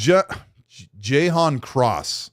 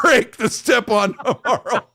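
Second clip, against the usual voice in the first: reading through laughter, higher and slower; cracking up; 7 semitones higher, slower than usual. Real, not acted. Host reading a super chat joke, breaking into laughter. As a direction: break into laughs mid-sentence.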